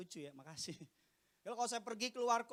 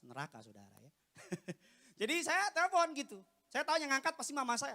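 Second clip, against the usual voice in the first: usual speaking voice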